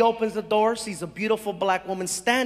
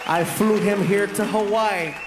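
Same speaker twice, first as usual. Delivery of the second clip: rally the applause, stretching the final name; announcer build-up; 4 dB louder than usual. Real, not acted. Comedian brings his friend on stage, building to a shout.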